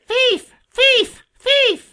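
very high-pitched screeching jay; piercing, furious character squawk; harsh scream. A narrator's reading. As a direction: screech it like an angry bird. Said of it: "he screamed in his harshest voice".

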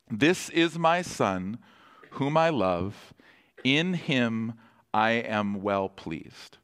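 slow, measured quote; voice of God. Retold or imitated. Pastor voicing the Father over the Son, slow and solemn. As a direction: lay each phrase down slowly and solemnly. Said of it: "the voice of God says to Jesus".

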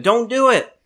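a sudden high shout across the bridge; retold yell. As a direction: call out to stop him jumping. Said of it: "and I yelled at him".

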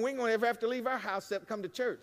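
ordinary talk

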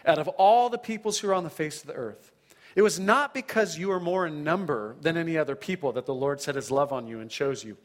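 earnest proclaiming Bible reading; scripture reading. Acted. Preacher reading God's love for Israel, earnest proclaiming. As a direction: read God's love to them with conviction. Reads Deuteronomy seven aloud.

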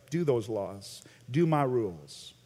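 low, hard master's orders; stern slave master. Retold or imitated. Preacher mimics a harsh master giving orders, low and curt. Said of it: "like a slave master".

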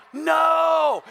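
a loud, high shout of protest; retold yell. Friend on the phone yells back in alarm, loud and high. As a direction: shout it like startled dad on the phone. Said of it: "And I hear him yell".

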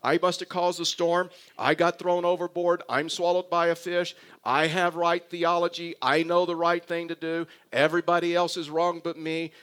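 loud, mildly angry list of grievances; Jonah's complaint. Acted. Jonah venting to God about being sent to the Ninevites, mildly angry. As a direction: pile up the grievances with rising insistence. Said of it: "See, Jonah is thinking".

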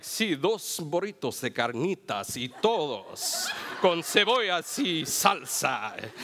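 put-on slow, rolled Mexican Spanish accent, chuckling; confident Spanish. Ordering burritos at a taqueria in a proud Mexican Spanish accent. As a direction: show off fluent Mexican Spanish while ordering. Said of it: "I'm just like".

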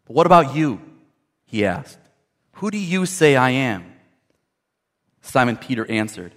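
measured, solemn Bible reading; formal pulpit reading; scripture reading. Acted. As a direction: read the gospel out formally, with pauses between phrases. Reads scripture, then gives the greeting.

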